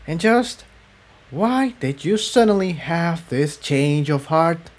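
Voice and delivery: high, pointed, venomous question; a touch of venom. Acted. Tiptoe interrogating Cerulean, with venom. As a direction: needle her with suspicion. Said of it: "with more than a touch of venom".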